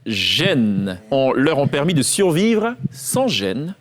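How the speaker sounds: slow, drawn-out dictation voice; quiz dictation. Shown as a demonstration. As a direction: read it out slowly, word by word. Repeats the dictation sentence. (dictée lente et articulée)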